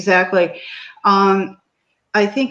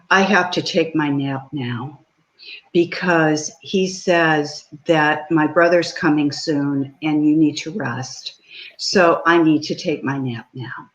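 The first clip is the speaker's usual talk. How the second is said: put-on serious child; 3 semitones lower than usual. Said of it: "real serious".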